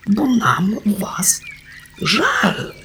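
high, slow, tearful whisper; a touch of tearful pity; through tears. Acted. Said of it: "oświadczył przez łzy najstarszy".

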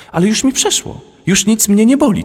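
put-on very high, bright child voice; eager little girl. Girl eagerly insists she is better. (dziewczynka zapewnia tatę, bardzo wysokim głosem)

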